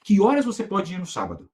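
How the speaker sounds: upbeat sales pitch, lightly acted; sales audio demo. Shown as a demonstration. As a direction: pitch a property launch to a client in a friendly way. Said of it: "Então vamos representar um áudio".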